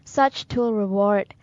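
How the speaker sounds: short, separated lines of declaimed verse; poem recitation. Acted. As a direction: recite it firmly, phrase by phrase.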